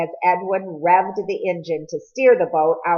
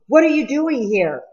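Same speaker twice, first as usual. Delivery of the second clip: higher, breathless stammer through chattering teeth; 6 semitones higher than usual. Acted. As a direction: stammer it, cold and startled. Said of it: "Cole stammered, his teeth chattering".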